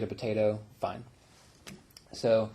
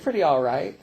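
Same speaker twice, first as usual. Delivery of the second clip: laughing through the words, a bit louder; laughing answer; 4 semitones higher, 7 dB louder than usual. Retold or imitated. Narrator laughing while answering the persistent man. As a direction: chuckle out the answer.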